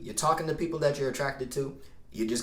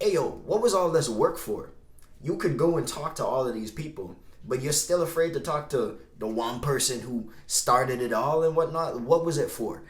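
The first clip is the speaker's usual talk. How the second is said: pushy inner voice. Acted. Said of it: "But then the new voice".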